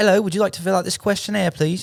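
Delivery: put-on old British lady voice. Retelling being stopped with a questionnaire: imitating an elderly British woman. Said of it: "elderly British woman, she was like".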